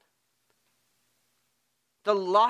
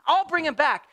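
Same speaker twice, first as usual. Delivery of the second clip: frantic pleading; 8 semitones higher, 3 dB louder than usual. Pretend. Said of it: "She says".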